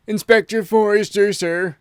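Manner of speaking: high, loud announcement at the door; butler announcing. A narrator's reading. Butler throwing open the door to announce the inspector loudly. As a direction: announce the visitor grandly. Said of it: "said the butler".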